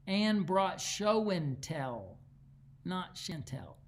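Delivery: "show and tell" said slowly and carefully, set against "Chantel"; patient, deliberate correction of a misheard phrase; slow clarifying correction. Retold or imitated. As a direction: spell out "show and tell" word by word to clear up the mix-up. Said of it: "No, it's Ricky's accent".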